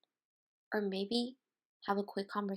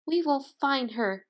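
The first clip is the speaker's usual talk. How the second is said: louder, firmer promise; insisting; 5 semitones higher, 7 dB louder than usual. Acted. Mother dog comforting her friend, firm insistence. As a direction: insist with resolve. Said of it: "she insisted".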